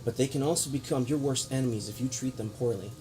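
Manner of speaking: grave lecturing noble speech; villain monologue. Acted. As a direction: preach down at them with scorn. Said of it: "Villain monologue".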